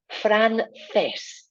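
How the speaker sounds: francés with a lisped c; Spanish c. Shown as a demonstration. Teacher modelling francés for learners, tongue between teeth. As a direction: say francés with the tongue out on the c, fran-THES. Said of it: "Tongue coming out".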